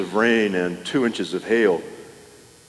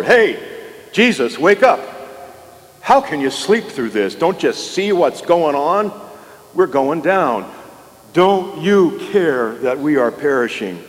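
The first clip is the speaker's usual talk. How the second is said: panicked shout; 6 semitones higher than usual. Acted. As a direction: shout over the storm in alarm. Disciples waking Jesus in storm.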